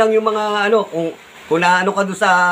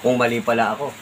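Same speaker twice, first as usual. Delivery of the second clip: a gentle, easy apology, said much softer; soft sample apology; 9 semitones lower, 7 dB quieter than usual. Shown as a demonstration. Vlogger shows his critics how to say sorry: soft, humble apology. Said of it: "madali lang naman banggitin ng sorry".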